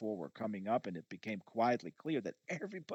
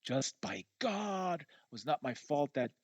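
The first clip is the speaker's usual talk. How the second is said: a touch of retold fury, slowed on by God; half-hearted imitation of rage; mild mock rage; 4 semitones higher than usual. Pounding his chest at the therapist, mild mock rage. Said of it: "with rage as I said".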